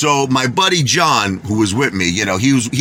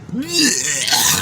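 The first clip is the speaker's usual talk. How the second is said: mock throwing-up noise; imitated retching; 8 semitones higher than usual. Storyteller imitating a drunk girl throwing up, mock retch. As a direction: act out a retch. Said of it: "starts throwing up".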